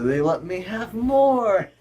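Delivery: high gloating shout; triumphant. Acted. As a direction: crow your victory. Triumphant cry.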